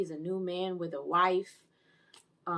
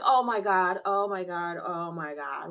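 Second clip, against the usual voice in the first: stunned reaction; 6 dB louder than usual. Retold or imitated. Acting out shocked viewing reaction.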